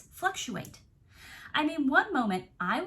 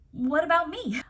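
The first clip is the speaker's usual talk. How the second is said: emphatic question; 5 semitones higher, 5 dB louder than usual. Real, not acted. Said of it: "pleading for herself".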